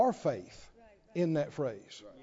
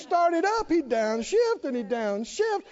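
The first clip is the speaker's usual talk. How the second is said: raised-pitch sermon storytelling; animated preaching; 7 semitones higher than usual. Real, not acted. Preacher tells of Terry's struggle up the hill, animated preaching.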